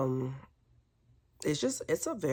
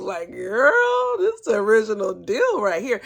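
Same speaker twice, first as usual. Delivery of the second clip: louder and higher, sassy; sassy declaration; 6 semitones higher, 6 dB louder than usual. Retold or imitated. Vlogger telling the doctor it is real, higher and louder. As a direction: tell her off, full of attitude. Addresses the woman emphatically.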